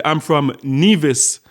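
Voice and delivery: slow, beaming, proud reply; big smile. Retold or imitated. Woman telling a guest her island, slow and smiling. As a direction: let the pride and smile stretch each word. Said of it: "with a big smile on her face".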